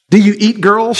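put-on a girl dreading the answer; lightly voiced frightened girl; Jill, afraid. A narrator's reading. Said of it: "she said".

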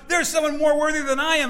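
high, loud, agitated outburst; freaking out. Acted. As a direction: imitate someone worked up and amazed. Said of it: "like, freaking out".

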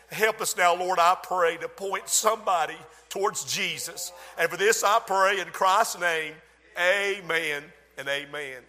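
earnest pulpit prayer rising in fervour; opening prayer before preaching. Acted. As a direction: pray it over the congregation, building. Pastor prays before the sermon.

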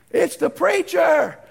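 acted loud, drawn-out reply; calling back. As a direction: announce yourself to those inside. Preacher calls back through door.

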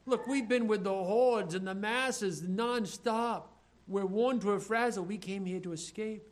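tired followers begging to be left alone; exasperated disciples. Retold or imitated. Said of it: "They're saying".

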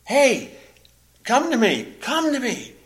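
retold shouting. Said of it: "He's shouting at them".

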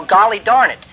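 the timid polite swap; a prissy euphemism, hammed up; mock mild substitute. Shown as a demonstration. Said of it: "it isn't appropriate".

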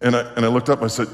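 normal talking voice

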